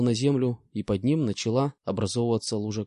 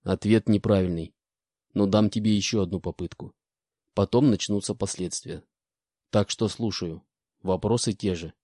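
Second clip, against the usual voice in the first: indifferent; 3 semitones lower than usual. Acted. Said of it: "безразлично ответил Буран".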